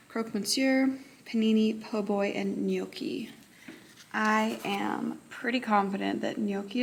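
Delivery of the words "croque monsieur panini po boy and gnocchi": put-on half-hearted English accent on food names; lightly mock English accent, dodging French and Italian. Teacher reading a quiz list to viewers, in a light English accent. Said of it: "say it with an English accent".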